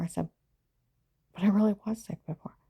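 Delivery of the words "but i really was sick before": pleading. Retold or imitated. Pleading against agent.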